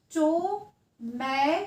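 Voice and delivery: "tomato" in drawn-out syllables, every vowel held; long open vowels. Shown as a demonstration. Teacher showing children an open-syllable word, long vowels in "tomato". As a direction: stretch each vowel of "tomato" slowly. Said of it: "long sound आती है".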